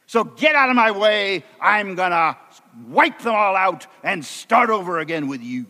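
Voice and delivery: understated anger, pitch lifted at the start; angry God. Acted. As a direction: act out God fed up with the people. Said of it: "in a very angry voice".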